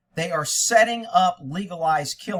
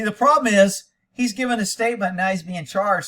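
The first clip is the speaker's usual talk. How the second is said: worked up; 5 semitones higher, 7 dB louder than usual. Real, not acted. Host explaining, worked up.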